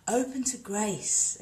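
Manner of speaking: slow, calm intoning of Open to grace. Shown as a demonstration. Teaching viewers a yoga principle, slow and calm. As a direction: draw out Open to grace slowly and gently. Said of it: "first principle of Anusara".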